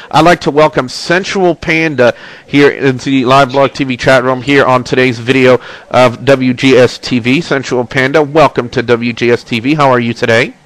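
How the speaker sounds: congested, blocked nose; talking through a stuffy nose. Real, not acted. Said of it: "I'm a little congested, as you can probably tell".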